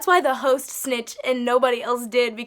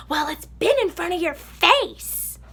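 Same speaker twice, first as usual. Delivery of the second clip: mild mock yell, a bit higher; imitating a yell; 5 semitones higher, 3 dB louder, slower than usual. Margaret yelling after the server walking away, mild mock yell. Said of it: "she's yelling".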